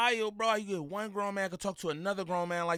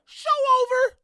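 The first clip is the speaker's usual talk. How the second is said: much higher, loud announcement; loud declaration; 11 dB louder than usual. Real, not acted. Host declaring the argument finished. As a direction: call it like a ringside announcer.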